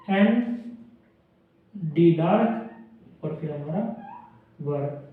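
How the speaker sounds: एन, डी, वर spelled out slowly; teacher slows down to split एंडेवर; slow breakdown. Shown as a demonstration. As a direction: slowly take एंडेवर apart. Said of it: "एंडेवर".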